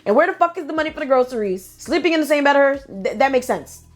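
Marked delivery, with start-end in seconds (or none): 0.1-1.0 slow, pitch climbing, indignant; rising indignation. Real, not acted. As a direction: drag it out, getting more outraged. Ranting at cousin.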